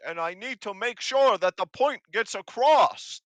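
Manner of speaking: high, loud goblin yelling; yelling hobgoblin. Acted. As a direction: shout it so the deaf can hear. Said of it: "why are you yelling".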